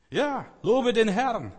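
high, drawn-out exclamation of praise; exultant praise. Acted. Preacher urging the congregation to praise, exultant. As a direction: call it out high and slow.

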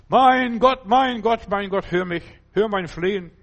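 high, loud cry of Mein Gott that settles; loud cry to God. Acted. Believer crying out to God after the struggle, high and loud. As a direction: call out to God, then calm into pleading.

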